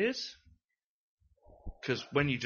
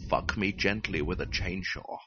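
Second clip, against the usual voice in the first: a light Scottish film-star impression, a bit lower; Sean Connery voice; 5 semitones lower than usual. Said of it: "I wanna do it in a Sean Connery voice".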